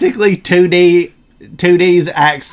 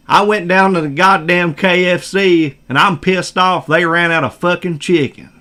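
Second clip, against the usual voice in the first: Brooklyn accent. Shown as a demonstration. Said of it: "make everything you're saying much slower".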